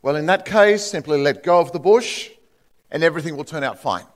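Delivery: a hint of a calm, reassuring heavenly voice; lightly voiced God calmly advising the dangling man. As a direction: reassure him evenly, unhurried. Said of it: "The calm voice said".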